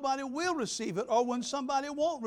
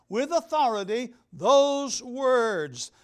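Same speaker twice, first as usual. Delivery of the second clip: loud, slow, weighty pronouncement; authoritative declaration; 7 dB louder, much slower than usual. Shown as a demonstration. Preacher declaring Scripture from the pulpit, loud authoritative delivery. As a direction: declare it slowly with forceful authority.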